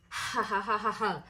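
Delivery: soft, spaced-out fake laughter; imitated mocking laugh. Imitating the pair laughing at her.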